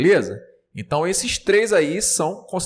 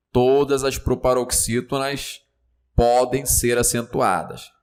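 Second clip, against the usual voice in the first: enunciado de prova. Acted. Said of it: "caindo assim".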